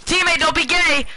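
rising frantic calls for help; being chased. Real, not acted. Downed, calling teammate for help.

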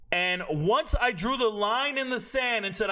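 usual speaking voice

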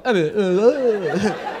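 dumb blank "ah, ah, ah" with a laugh; playing dumb. Comedian pretending not to understand abroad, dopey. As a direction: sound clueless and vacant. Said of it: "Faço cara de burro".

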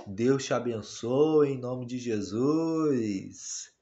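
voicing the baby. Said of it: "Fala assim".

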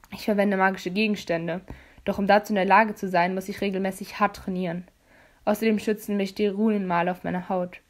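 hint of a firm, lecturing young man; leicht gespielter Jace. Jace voiced in dialogue. (leicht angedeutete tiefere Jungenstimme)

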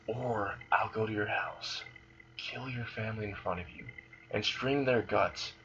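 very soft, slowing into near-whisper; hushed menacing threat. Acted. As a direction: threaten quietly, right beside their ear. Issei threatens lunch lady up close.

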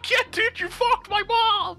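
loud gung-ho soldier. Pretend. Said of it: "that's what Marines are like".

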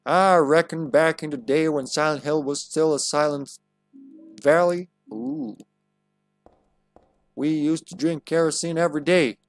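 lightly put-on American Southern accent; Southern drawl. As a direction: play it like a folksy Southern old-timer. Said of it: "we gotta stop that accent".

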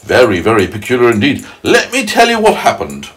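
lightly voiced centipede, relishing the tale; storytelling centipede. Centipede telling James what happened, lightly characterised and drawn-out. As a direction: spin the yarn slowly, with lively swoops.

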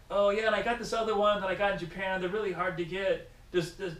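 high, loud excited questioning; mock eager stranger. Float tuber bragging about Japanese lure, high and excited. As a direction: gush like a gear nerd.

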